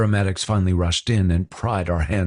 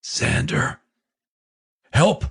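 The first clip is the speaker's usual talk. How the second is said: high, urgent call for help; 11 semitones higher, slower than usual. Acted. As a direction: cry out across the room. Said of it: "I called out at the top of my lungs".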